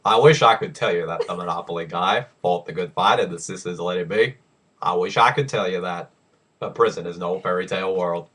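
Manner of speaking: a hint of Morgan Freeman narrating; Morgan Freeman impression. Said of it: "your best Morgan Freeman".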